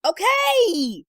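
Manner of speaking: high, drawn-out cry of horror; tortured yell. A narrator's reading. Wife giving in as dog licks her, tortured yell. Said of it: "I yell in tortured horror".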